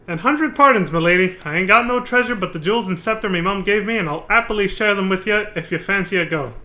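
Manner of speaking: a hint of a rough pirate; lightly voiced pirate. Streamer rereading the pirate's line, lightly voiced pirate. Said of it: "he says".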